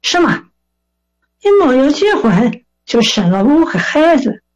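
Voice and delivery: playfully imitated angry elder; mock indignation. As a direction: act affronted in Shandong dialect. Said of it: "他很生气".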